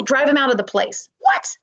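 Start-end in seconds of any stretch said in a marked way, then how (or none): 1.2-1.6 squeaky high mock shock; mock surprise. Teacher faking shock at the plot. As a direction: gasp it out in fake disbelief. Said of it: "big old exclamation part".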